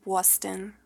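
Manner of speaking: low-key mock Boston accent. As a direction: try saying it like a Bostonian. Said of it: "I have a Boston accent".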